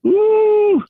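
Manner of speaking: put-on broken English, mild accent; fake Middle Eastern accent. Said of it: "carry a bullshit accent".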